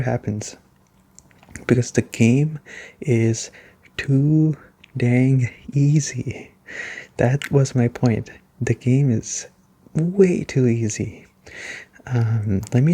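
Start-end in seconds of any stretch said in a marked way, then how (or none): 1.7-6.5 slow, drawn-out stress on too dang easy; exasperated emphasis. Real, not acted. Exasperated point about game difficulty. 8.6-11.3 slow, deliberate stress on way too easy; emphatic repeat. Real, not acted. Repeats his point with emphasis.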